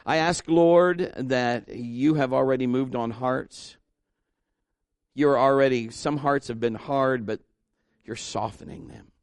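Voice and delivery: prayerful, earnest plea to God; pastoral prayer. Acted. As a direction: pray over the bowed heads.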